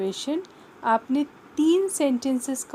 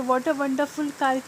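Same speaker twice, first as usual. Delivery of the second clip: exclamation; 3 semitones higher, 3 dB louder, much slower than usual. Shown as a demonstration. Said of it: "के लिए आप exclamatory mark लगाएंगे".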